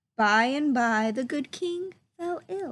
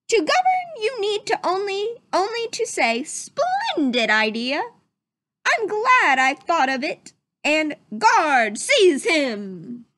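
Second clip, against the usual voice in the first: mock royal commands; 6 semitones higher, 3 dB louder than usual. Prince imitating royal commands.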